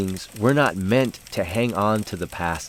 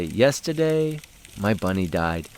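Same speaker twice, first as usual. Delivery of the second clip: a hint of a child breaking sad news; solemn little girl. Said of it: "so she'd say".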